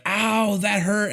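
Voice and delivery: high, deadpan mock ow; mock pained hero. Hero bitten by the zombie, high mock complaint. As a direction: squeak out a fake hurt. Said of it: "he bites Dave Bautista like".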